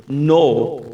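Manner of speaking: put-on a loud, firm no to a child; firm parental no. Parent refusing a child's tantrum, loud and firm. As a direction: shut the child down with one word. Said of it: "tenemos que decirles a nuestros hijos".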